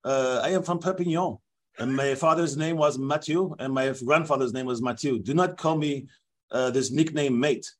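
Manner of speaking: lightly put-on French referee accent; a hint of a French accent, offended; the speaker voicing a French referee in a French accent; mock French accent. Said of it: "this is my actual interview".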